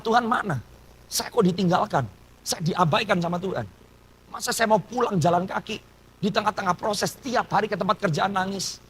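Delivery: plaintive griping, replayed; retold grumbling. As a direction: reenact an aggrieved, questioning grumble.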